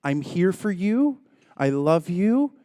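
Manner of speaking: slow, soothing "I'm here for you"; mock-sincere loving words to the wife; tender reassurance. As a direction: soothe her slowly and lovingly. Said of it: "I said".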